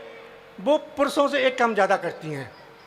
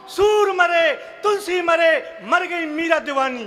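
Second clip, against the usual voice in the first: declaiming verse; 5 semitones higher, slower than usual. Acted. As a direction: proclaim it like a stage poet. Declaiming poetry lines. (मंच पर ज़ोर से कविता पाठ)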